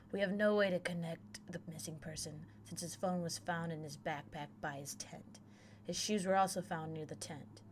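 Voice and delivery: even, measured reading of a case report; matter-of-fact incident report; report read-aloud. Acted. Reads a missing-person report aloud.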